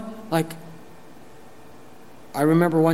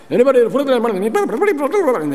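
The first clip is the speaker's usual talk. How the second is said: mock ad voice; 10 semitones higher, 4 dB louder than usual. Mocking investment ad disclaimer.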